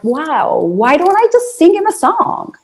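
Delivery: an inner thought voiced aloud with lifted pitch; a light spark of inspiration, not shouted; sudden bright idea. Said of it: "And I just thought, like".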